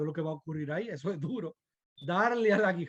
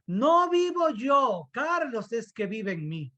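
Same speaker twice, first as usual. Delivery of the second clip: joking quote; 4 semitones higher than usual. Retold or imitated. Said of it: "me imaginaba que la hermana Susana".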